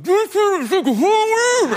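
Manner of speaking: high, loud, drawn-out holler; passersby calling out. Retold or imitated. People on the street, heard from inside a costume, high drawn-out yell. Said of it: "I would just hear people like".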